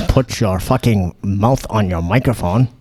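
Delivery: put-on slow, lightly done German accent; a hint of a stern German accent. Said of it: "That was my German accent".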